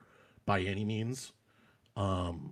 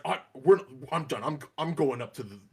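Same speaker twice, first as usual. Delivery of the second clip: put-on fed-up kid; 3 semitones higher, 4 dB louder than usual. Upset kid storming off.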